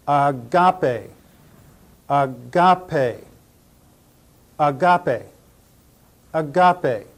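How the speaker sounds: "agape" said ah-GAH-pay, middle syllable stressed; pronunciation demo. Shown as a demonstration. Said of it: "Pronounce it".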